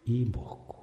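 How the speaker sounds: 이목구 said softly in Gyeongsang dialect; 경상도 사투리로 조용히 "이목구"; Gyeongsang dialect word. Shown as a demonstration. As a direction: drop the voice and give 이목구 as a Gyeongsang speaker says it. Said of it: "경상도 사투리로 하면은 이목구가 되는".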